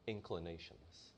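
normal talking voice

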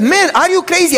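high, loud shocked imitation; mock shock. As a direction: gasp it out like he can't believe it. Landlord shocked by threat.

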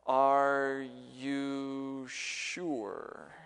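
very slow, stretched-out Arkansas drawl; slow southern drawl. Retold or imitated. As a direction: drag each word out like a southern pastor. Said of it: "in a really slow southern drawl".

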